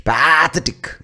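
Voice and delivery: pathetic loud and high, with a long first "paa"; Indian mispronunciation. Shown as a demonstration. Showing how we mispronounce it, Pathetic as PAA-thetic. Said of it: "when we mispronounce it".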